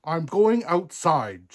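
loud, high, drawn-out princess huff; snapped. A narrator's reading. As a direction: announce it crossly and loudly. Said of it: "she snapped".

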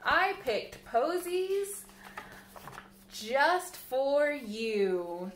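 put-on a child's fond little gift voice; sweet offering. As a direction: give mama the flowers lovingly. Child offering flowers in story.

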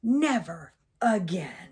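breathy whispered never again; whispered vow. Acted. Crocodile whispering its vow to the child. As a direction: hush it as a solemn promise.

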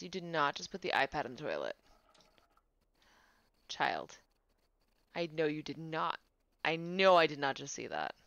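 fast, disbelieving scold; can't believe what you saw; incredulous scolding. Real, not acted. Sim put iPad in toilet.

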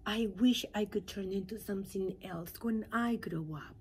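a hint of a dreamy tadpole; lightly voiced wistful pollywog. Pollywog wishes.

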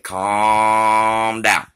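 firm retold order. Telling the panicking man to calm down, firmly. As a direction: order him to settle. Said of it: "I said".

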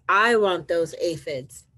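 slow, grumpy storybook demand; grouchy ladybug demand. Acted. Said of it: "shouted the grouchy ladybug".

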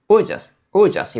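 we'll just with we'll reduced to a leaned-on "wool"; light stress on we'll. Shown as a demonstration. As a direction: give we'll a little weight before just. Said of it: "여기서는 강세가 지금 조금은 들어가서". (we'll just에서 we'll에 살짝 강세)

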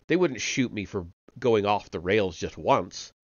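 a hint of a nervous, eager-to-please chap; anxious Parsons. Parsons begs Winston for reassurance in the cell, lightly voiced and anxious.

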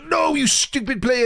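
high-pitched exasperated cry; anguished outburst. Real, not acted. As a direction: wail at a player who blew the chance. Chance missed at the end.

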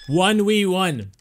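normal talking voice

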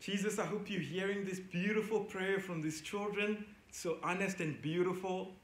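quietly thankful to Jesus; soft prayer. Real, not acted. Teacher praying to Jesus over children's prayers, soft and reverent.

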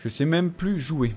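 slow, soft rueful je sais même plus jouer; slow rueful repeat. Real, not acted. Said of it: "tu vois".

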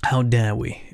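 hushed indignant whisper. Pretend. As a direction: whisper the outrage as the robot. Robot character whispering indignantly.

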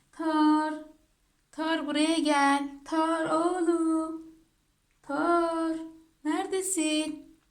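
slow, drawn-out call; calling a dog. Real, not acted. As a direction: stretch the name out to summon a pet. Calling the other dog over. (uzata uzata çağırarak)

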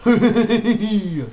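high, loud giggle; laughing at own joke. Real, not acted. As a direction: burst out giggling at your own pun.

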